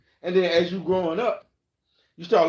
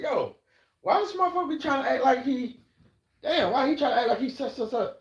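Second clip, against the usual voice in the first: mock gossip; 8 semitones higher than usual. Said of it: "you gonna say".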